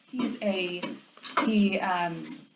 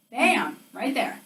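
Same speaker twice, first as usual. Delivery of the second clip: eureka; 3 semitones higher, 9 dB louder, slower than usual. Retold or imitated. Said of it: "And I was like".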